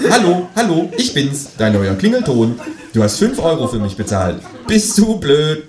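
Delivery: high, laughing ringtone squawk; tinny ringtone squawk; squawky ringtone voice, replayed. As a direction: squawk it again like the phone. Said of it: "quäkt es aus dessen Telefon".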